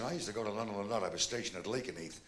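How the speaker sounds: low, quiet, quick American voice; lightly voiced American airman; a hint of an American accent. American man reminiscing.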